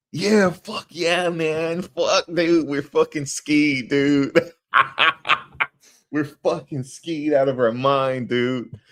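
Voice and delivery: high, drawn-out mock stoner-bro whoop; imitated party bro. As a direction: play a wasted party dude, laughing. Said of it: "I know a boy like that".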